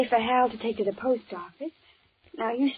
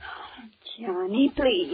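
whispered plea; much slower than usual. Acted. Pleading whisper against a kiss.

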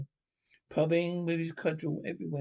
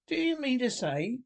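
excited; 9 semitones higher than usual. A narrator's reading. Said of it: "cried the excited Rat".

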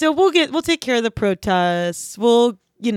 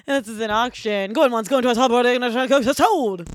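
auctioneer. Retold or imitated. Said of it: "I do an auction impressioner".

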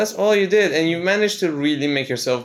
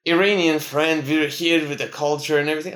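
mock condescending; 3 semitones higher than usual. Imitating cocky visitors talking down to locals, mock condescending. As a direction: imitate someone talking down to a foreigner. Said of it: "they talk down to you a little bit".

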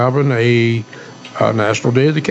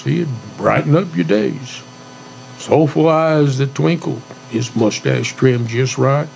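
cowboy poetry. Shown as a demonstration. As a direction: recite it like a eulogy poem. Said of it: "I'm gonna do a cowboy poem".

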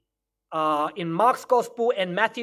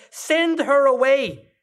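slow and louder, lightly exasperated; fed-up demand; 3 semitones higher, 4 dB louder, slower than usual. Acted. Disciples urging Jesus, mock fed-up demand. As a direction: press the point, drawn out. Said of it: "started begging Jesus".

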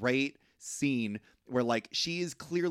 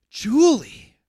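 loud, high-pitched call of the name; sharp rebuke; 7 semitones higher, 12 dB louder than usual. Acted. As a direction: snap her sister's name to stop her. Meredith scolds her sister.

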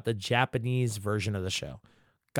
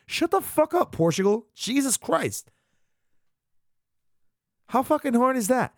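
furious rant; 10 semitones higher than usual. Real, not acted. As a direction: let the anger boil over. Ranting at the voice actor.

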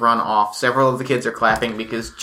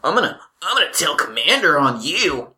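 mock-furious tattling, pitch swooping up; furious kid; 3 semitones higher than usual. Beaten bully threatening to tell Commander on his attacker, mock furious. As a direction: act out a sore loser threatening to tell. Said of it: "he is furious. He's furious".

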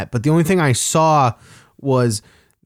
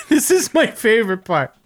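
higher, laughing through the words; 9 semitones higher than usual. Real, not acted. Storyteller cracking up at his favorite part, laughing. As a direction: crack up while saying it.

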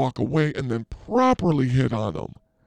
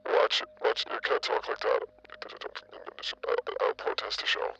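mock whisper; 6 dB quieter than usual.

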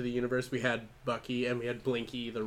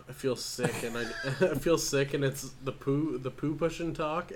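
laughing. Real, not acted. Laughing at gross joke.

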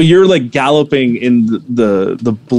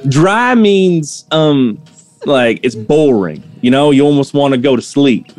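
a hint of the shopkeeper voice.

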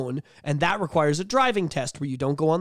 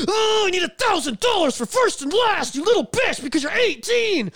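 mocking insurance agent; 4 dB louder than usual. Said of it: "and goes".

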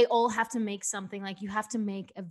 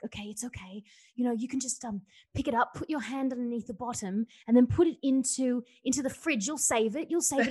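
reassuring; 3 semitones higher than usual. Retold or imitated. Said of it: "the guy was like".

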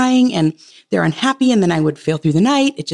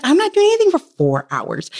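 flat refusal; 9 semitones higher than usual. Retold or imitated. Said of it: "I was like".

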